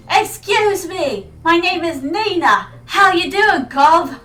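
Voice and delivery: loud, drawn-out British greeting; hammed-up British "how you doing, Gov"; British accent. Streamer mock-greeting a stranger on the street, British accent. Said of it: "do that in a British accent".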